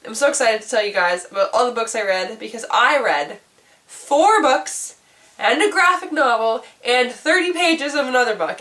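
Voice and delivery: normal talking voice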